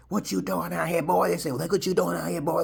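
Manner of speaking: high, loud mock redneck challenge; gruff redneck voice. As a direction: play the drunk gunman sizing him up. White men with guns confront him.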